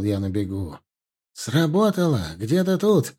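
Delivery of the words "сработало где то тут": excited high-pitched shout on the run. Acted. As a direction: call out the alarm while running. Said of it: "закричал Алим". (взволнованный крик на бегу)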